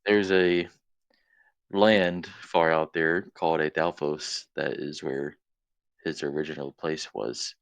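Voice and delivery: muffled, talking around a cap; words blocked by a cap in the mouth. Real, not acted. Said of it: "We can hear you fucking muffled voice 'cause you have a cap in your mouth".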